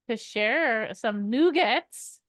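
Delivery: "nougats" drawn out slowly, NOO-gats; a slow, playful "nougats". Shown as a demonstration. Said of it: "Didn't we recall nougats?".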